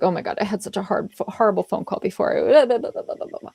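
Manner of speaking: mock apologetic gushing, rushed. Leader coming into work excusing a bad call, apologetic. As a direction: hurry through the excuse and trail into blahs. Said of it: "That's an apologetic kind of".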